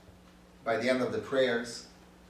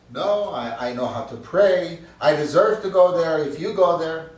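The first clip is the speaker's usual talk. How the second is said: arguing bird; 5 semitones higher, 10 dB louder than usual. Acted. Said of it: "the bird argues and talks".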